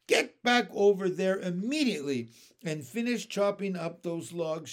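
stern order. Acted. Aunt ordering the boy back to work, stern. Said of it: "she ordered".

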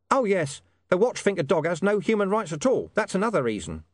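high, cagey informant voice. Acted. Hidden informant hinting to William about the dog, high and cagey. Deep Bone explains distrust.

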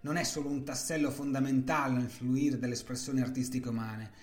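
dramatic storytelling narration; story narration. A narrator's reading. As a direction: tell it like a story unfolding. Narrated story over music.

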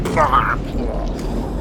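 voiced explosion sound; mock explosion. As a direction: spit out a mouth blast. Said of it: "you're gonna hear an explosion".

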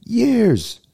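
sudden high squeaky yelp; high squeal. Real, not acted. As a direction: jump way up on years. Emphatic repeat of years.

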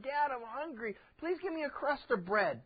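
a light high child's plea, lightly voiced; a hint of a little kid begging; hungry child. Preacher voicing a hungry kid asking dad for bread, lightly pleading.

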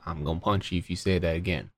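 low, quick, soft threat; mock threat. The meaning behind bless your heart, mock quiet threat. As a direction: drop low and quiet for the playful warning. Hidden threat after sweet phrase.

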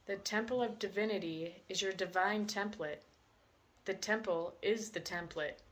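measured meditation reading with roomy pauses; guided meditation. Acted. Host reading a book's meditation to listeners, measured guided-meditation delivery. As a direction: read the visualization out phrase by phrase, deliberately.

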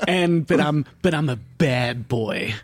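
slow, lightly voiced mock boast; lightly mock a self-styled genius, drawing it out; boastful screenwriter. Comedian mocking an actor's self-written genius role, slow mock boast. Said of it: "he wrote the screenplay where he was like".

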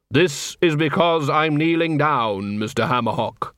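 slow, solemn Death voice; grim reaper voice. Acted. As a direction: speak as a calm grim reaper. Death speaks to dead dwarf.

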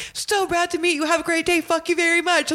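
high, chirpy mock pleasantries; friendly conversation. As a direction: sign off sweetly, as if parting from a camp guest. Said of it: "I'm having a full-blown conversation".

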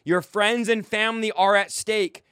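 slow it down and space out each word; measured, emphatic repeat for slow listeners. Shown as a demonstration. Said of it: "Do I need to say it slower".

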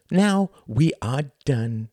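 high, showy stage-host voice; theatrical thin man. Acted. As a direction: play the pompous thin performer lecturing the audience. Thin man addresses audience.

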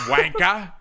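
slow mock-British WANKER; attempted British accent. American tries out a British swear word, mock British accent. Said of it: "Is that another one?".

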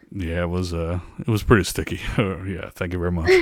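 Impression of a famous singer. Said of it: "So this is Elvis".

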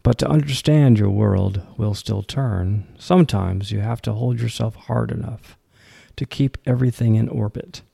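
deliberate poetry reading, firm line openings; poem recitation. Acted. Host reads the poem Greener Sides to listeners, poem recitation. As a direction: recite it in phrases, pausing after each line.

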